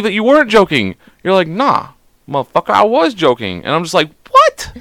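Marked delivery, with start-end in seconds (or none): 1.5-3.6 higher-pitched mock defiance; mock-brash denial; imitated brash retort. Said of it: "Because that's how you talk". 4.3-4.7 very high, rising, incredulous squeak; louder high-pitched mock disbelief; mock shock. Acting own shocked reaction.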